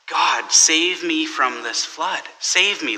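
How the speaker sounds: slow, earnest plea to God; pleading prayer. Retold or imitated. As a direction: pray slowly for rescue. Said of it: "he prays to God".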